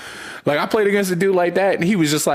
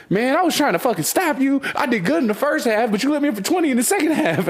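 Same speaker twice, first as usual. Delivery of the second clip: higher, mock-exasperated rival voice; imitating opponent; 9 semitones higher than usual. Quoting the frustrated defender after the game, higher mock whine. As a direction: play the beaten defender complaining.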